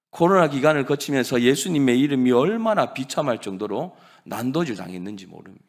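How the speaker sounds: ordinary delivery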